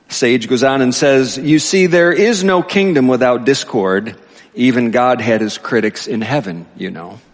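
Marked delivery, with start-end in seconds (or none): 1.4-7.2 higher, projected reading of a sage's speech; reading aloud. A narrator's reading. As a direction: read it out emphatically to a congregation. Reads key line aloud.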